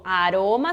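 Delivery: "aroma" drawn slowly with one tap; weak tapped R. Shown as a demonstration. Teacher starting from the weak R, slow single tap. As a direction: keep the R of "aroma" to a single flick. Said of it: "o R fraco".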